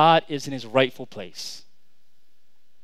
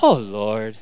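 low, drawn exasperated sigh of words; exasperated parent; 9 semitones lower than usual. Retold or imitated. Parent reacting when the kids do something, exasperated. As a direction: drop it low in mock despair. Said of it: "My kids do something".

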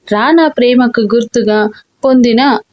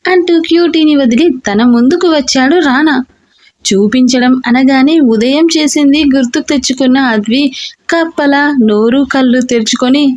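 usual speaking voice

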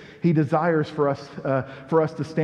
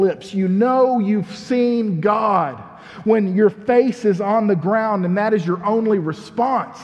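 fiery preaching; 3 semitones higher than usual. Acted. Pastor urging the church to bow down, fervent preaching. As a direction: preach it like a revival. Preaching builds to full force.

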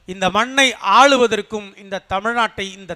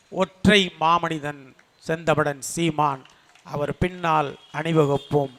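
low, slow, quieter reverent naming; solemn proclamation; 7 semitones lower, 7 dB quieter than usual. Real, not acted. Speaker at rally proclaiming his leader, low solemn slow declaration. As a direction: draw the words out like a solemn vow.

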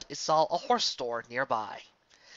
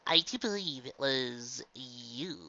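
dry; 3 semitones lower, 7 dB quieter, slower than usual. Real, not acted. Answering Trixie's question.

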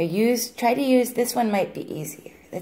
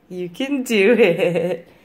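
laughing; slower than usual. Real, not acted. Laughs mid-phrase encouraging.

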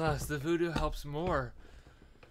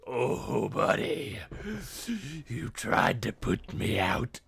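taunting villain voice; 7 dB louder, much slower than usual. Retold or imitated. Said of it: "and it's like".

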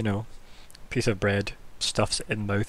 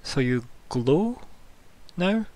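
slow, drawn-out haughty sister; 5 semitones higher, much slower than usual. Acted. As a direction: stretch it out, sister looking down her nose. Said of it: "she just looks at you, Eric, and goes".

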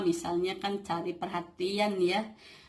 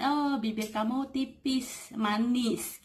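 higher, slow, admiring praise; acted compliment; 5 semitones higher, slower than usual. Showing how to praise a foreigner's looks, acted admiration. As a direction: play at flattering someone to open a chat. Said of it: "muji dulu ya".

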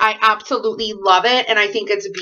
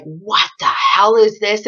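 retold shout. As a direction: shout it as if spooked by the card. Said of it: "And I was like".

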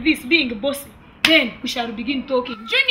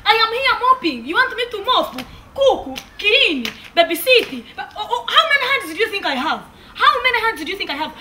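higher-pitched, exasperated tirade; indignant protest; 5 semitones higher than usual. Acted. Housemaid protesting she is no magician, indignant. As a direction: list each grievance with rising indignation. Maid protests her many chores.

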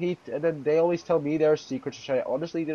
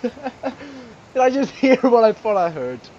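high, loud, slow question through laughter; laughing disbelief; 6 semitones higher, 6 dB louder, slower than usual. Real, not acted. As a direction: ask it while cracking up, incredulous. Laughing at what was just heard.

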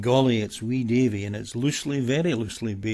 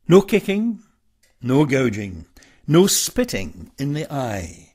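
calling out. Acted. Referee calling out fight rules.

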